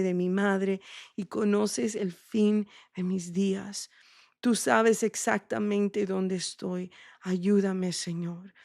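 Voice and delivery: an intimate spoken prayer, unhurried; heartfelt prayer. Acted. Prays aloud within sermon.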